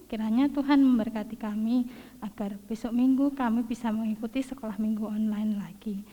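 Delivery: prayer read out with lifted phrase endings. Real, not acted. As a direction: lead a Sunday school prayer, phrase by phrase. Leads closing prayer aloud.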